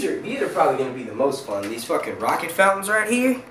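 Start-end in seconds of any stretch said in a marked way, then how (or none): 1.7-3.4 country twang slipping out, pitch raised; light, real country accent. Real, not acted. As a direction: let a little country accent slip. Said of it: "hear my country accent come out".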